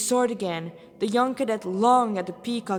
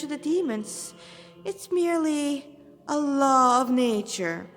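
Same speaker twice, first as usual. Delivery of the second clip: lightly voiced smug demon, slow and condescending; a hint of a cold villain lecturing; demon lieutenant; 4 semitones higher than usual. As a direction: demon mocking his prey, slow and superior.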